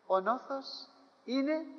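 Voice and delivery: slow, high, fading last words; slow last breath of an old father; dying father's words. Acted. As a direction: say it slowly like a dying man.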